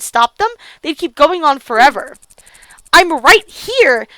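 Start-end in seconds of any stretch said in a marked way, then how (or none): 2.9-4.1 slow, emphatic, louder acted protest; indignant call. Girl interrupts boys talking about her, indignant call. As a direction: raise it a little and stretch each word. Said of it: "I shouted into the middle of them".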